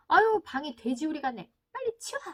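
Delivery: loud complaint jumping to a high-pitched order; acted exasperated shout at a child; yelling parent. Parent orders child to clean messy room, acted yelling. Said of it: "이렇게 소리 지고 싶지만".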